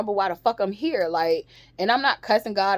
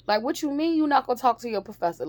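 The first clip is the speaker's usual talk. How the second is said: higher, fast disbelief; incredulous; 6 semitones higher, faster than usual. Real, not acted. Mocking students who skip professors, higher and fast. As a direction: scoff at the idea.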